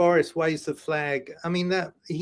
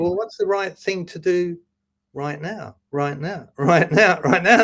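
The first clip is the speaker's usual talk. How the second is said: right now. Retold or imitated. Inner voice, repeating with laughter.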